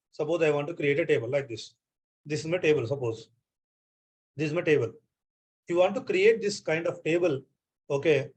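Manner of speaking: ordinary delivery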